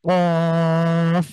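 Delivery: কফ with the tongue root pushed hard against the back, held long; Arabic qaf with a push; punched qaf. Shown as a demonstration. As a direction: thrust the tongue root and hold কফ. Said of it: "একটু ধাক্কা".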